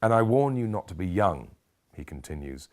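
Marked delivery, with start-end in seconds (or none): 0.0-1.6 Neil Kinnock. Acted. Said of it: "channeling Neil Kinnock now".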